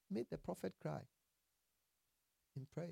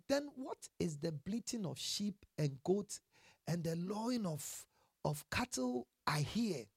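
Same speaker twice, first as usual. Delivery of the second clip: demanding; 4 dB quieter than usual. Retold or imitated. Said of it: "Samuel demanded".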